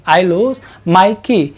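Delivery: "lose" very slow with a voiced z at the end; teacher modelling the verb "lose". Shown as a demonstration. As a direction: drawl "I lose my key", buzzing the z. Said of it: "जेड के sound के साथ".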